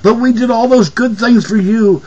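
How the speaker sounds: mock the pleading politician; mock whine. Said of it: "Go to your business buddies and say".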